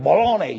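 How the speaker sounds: BOLOGNA said with firm emphasis; emphatic. Retold or imitated. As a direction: put mild punch on BOLOGNA. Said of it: "very emphatically this".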